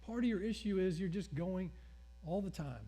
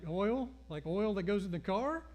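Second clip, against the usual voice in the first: incredulous question; 3 semitones higher than usual. Retold or imitated. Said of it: "And I was like".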